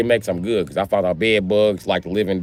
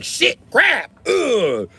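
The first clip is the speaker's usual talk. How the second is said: jumping high in surprise; startled squeak at the crab; high startled yelp; 13 semitones higher, much slower than usual. Retold or imitated. Spotting the crab at the door, high startled yelp. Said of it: "I was like".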